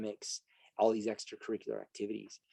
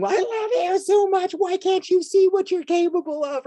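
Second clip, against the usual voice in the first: mock strangling exasperation; 11 dB louder than usual. Parent to the kid they love too much, hammed-up exasperated wail. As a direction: plead as if throttling them with love. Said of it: "you're like strangling".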